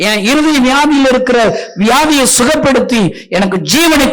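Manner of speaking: loud, high, impassioned preaching; full-force preaching. Acted. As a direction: preach it out to the hall with fire.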